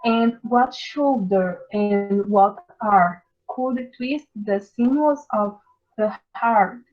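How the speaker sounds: measured, solemn poetry reading, slow at the start; poem recital. Acted. Teacher reciting The Tyger to the class, solemn reading voice. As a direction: read Blake aloud like a recitation.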